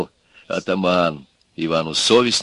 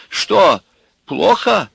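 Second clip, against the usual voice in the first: очень высокий, заботливый женский голос; спросить тоненько, с показным сочувствием; участливо; 12 semitones higher, 6 dB louder, much slower than usual. A narrator's reading. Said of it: "участливо спросила женщина". (сочувственно, на высокой ноте)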